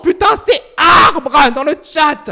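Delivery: slow, loud, high exclamation; excited shout. Real, not acted. Streamer spotting a friend in the chat, slow excited shout. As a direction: call it out, thrilled, drawn out.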